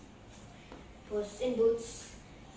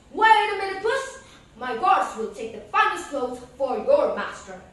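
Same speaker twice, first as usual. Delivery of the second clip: king calling out; 2 semitones higher, 10 dB louder than usual. Acted. King calling to Puss from the chariot. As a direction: call out to stop the cat. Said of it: "said the king".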